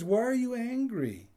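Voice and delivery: loud, high pointed question; God asking. Retold or imitated. God confronting Cain about his anger, loud and high. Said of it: "But God says".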